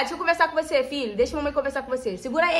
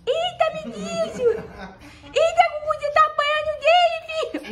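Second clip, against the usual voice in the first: excited squeal. Real, not acted. Owner squealing as the puppy meets her dog.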